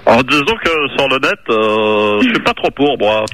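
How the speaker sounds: voix haute, débit pressé par moments; voix particulière. Real, not acted. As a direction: parle d'une voix perchée qui sort de l'ordinaire. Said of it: "tu reprendras ta voix de". (voix inhabituelle, plutôt aiguë)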